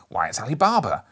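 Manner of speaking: delighted, loud cry of recognition; ecstatic exclaim. A narrator's reading. Old Scrooge cries out in ecstasy at a memory. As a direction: burst out in childlike joy. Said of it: "exclaimed Scrooge in ecstasy".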